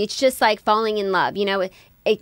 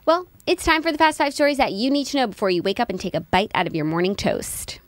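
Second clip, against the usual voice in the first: show intro; 2 semitones higher than usual. Acted. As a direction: announce the segment like a host. Opens the news segment.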